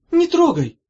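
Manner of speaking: high, loud snap; shrill indignant cry; angry. A narrator's reading. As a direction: pull away and cry out. Pulling her hand away angrily.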